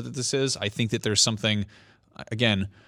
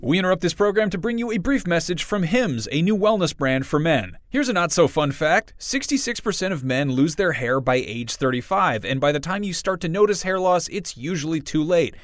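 upbeat podcast ad read; 5 semitones higher than usual. Acted. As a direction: sell it like a sponsor spot. Host reads sponsor ad.

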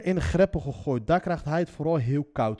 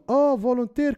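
louder, higher mock dawning insight; retold realisation; 6 semitones higher, 5 dB louder than usual. Captors finding out who he is, retold realisation. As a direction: imitate captors suddenly catching on. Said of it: "klonk het toen".

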